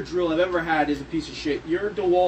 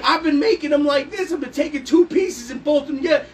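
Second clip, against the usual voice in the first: excited; 5 semitones higher, 5 dB louder than usual. Retold or imitated. Retelling his own reaction.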